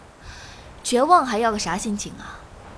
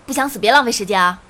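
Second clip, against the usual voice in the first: fast, louder angry push; impatient yell; 5 dB louder, faster than usual. Acted. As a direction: snap at her to hurry up. Rooftop quarrel over who jumps. (不耐烦地喊)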